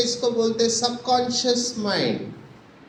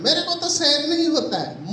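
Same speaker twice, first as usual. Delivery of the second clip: rising complaint; 5 semitones higher than usual. Retold or imitated. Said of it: "तो मुझे क्या बोलते हैं".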